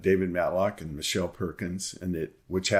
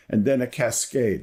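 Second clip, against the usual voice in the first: "cascade" lifted higher and louder at the end of the quote; stress on cascade; 5 semitones higher, 4 dB louder than usual. Shown as a demonstration. Lecturer reading the judge's essay to the class, stressing cascade. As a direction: lean hard on "cascade" so the class remembers it. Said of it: "I want to emphasize the word cascade".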